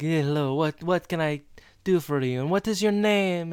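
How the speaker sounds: imitated French accent, lilting up on the question. Salon woman asks Eric his name, put-on French accent. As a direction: mimic the hairdresser's fake French accent. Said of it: "speaking in a really thick French accent".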